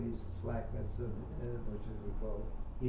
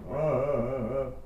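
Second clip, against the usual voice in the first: basso growl; 7 dB louder than usual. Retold or imitated. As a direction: grumble like a blustering bass. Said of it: "huffing and puffing".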